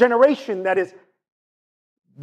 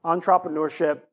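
Jamaican-accented entrepreneurship; 4 dB quieter than usual. Real, not acted. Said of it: "I use my Jamaican accent".

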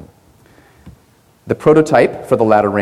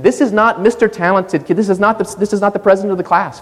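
emphatic; 10 semitones higher than usual. Real, not acted. Preacher stresses a point.

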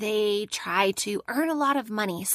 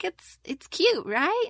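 high voice; 7 semitones higher, slower than usual. Retold or imitated. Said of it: "he's like".

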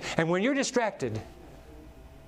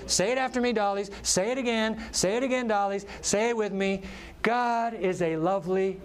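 put-on higher, bright little-girl voice, playful; little girl teaching her dollies; 5 semitones higher than usual. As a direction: play a small child bossing her dolls. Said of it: "Madeline hears her little Beth repeating to the dollies".

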